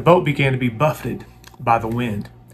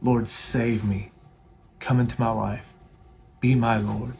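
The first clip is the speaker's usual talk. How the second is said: earnest prayer. Shown as a demonstration. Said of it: "cry out truly with your heart".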